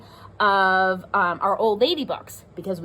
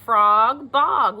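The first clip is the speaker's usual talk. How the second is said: Frog and bog said with a lift on the shared ending; teacher stressing the rhyme for kids; rhyming words stressed; 6 dB louder than usual. Shown as a demonstration. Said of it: "they even both end in O G".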